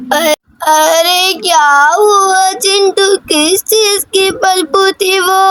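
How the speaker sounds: slow, drawn-out grandmother's voice; slow old granny. Acted. Granny calling Chintu about the bad smell, slow and drawn out. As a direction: stretch each word like a fussing old granny.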